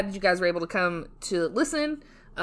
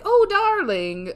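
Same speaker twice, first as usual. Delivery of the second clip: high, slow, drawn-out cooing; imitated endearment; 11 semitones higher, 4 dB louder, much slower than usual. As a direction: draw it out like a fond spouse. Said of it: "I never hear anybody be like".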